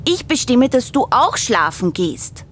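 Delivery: hohe, trotzige Kinderstimme; kleiner Bär. Acted. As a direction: als kleines Bärenkind protestieren. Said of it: "sagt kleiner Bär". (kleiner Bär widerspricht dem großen Bären, hoch und trotzig)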